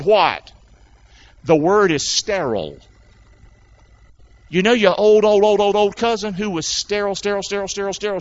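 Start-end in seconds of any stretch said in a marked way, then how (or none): 4.5-8.2 comic repetition. Retold or imitated. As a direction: hammer each word again and again, playfully. Comic repetition of old, sterile.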